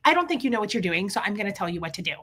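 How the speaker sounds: fast, mock know-it-all pushiness; imitated pushy person. Imitating someone telling a professional what to do, quick and pushy. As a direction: rattle it off like someone bossing an expert. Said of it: "when people are pushy".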